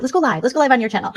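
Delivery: normal talking voice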